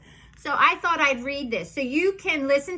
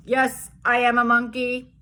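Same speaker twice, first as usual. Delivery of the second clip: silly confession; 4 dB louder than usual. Acted. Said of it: "making me say these crazy things".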